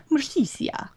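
Mercisia as mur-SHEE-see-ah; tentative pronunciation. Real, not acted. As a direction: try Mercisia with an extra syllable. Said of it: "One of those three is right".

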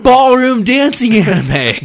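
shrill squeal of mock delight; high squeaky voice. Mocking show title.

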